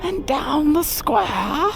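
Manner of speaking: high, strained, squeezed-down drill sergeant yell; holding back a shout. Retold or imitated. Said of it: "my terrible impersonation that I'm trying not to yell too loudly".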